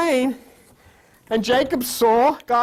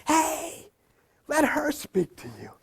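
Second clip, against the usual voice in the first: screaming; 5 semitones higher, slower than usual. Retold or imitated. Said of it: "Jesus is screaming from the Bible".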